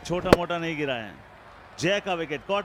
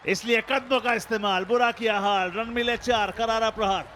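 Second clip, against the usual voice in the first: excited rhyming call; 5 semitones higher, 4 dB louder than usual. Acted. Rhyming cricket commentary flourish.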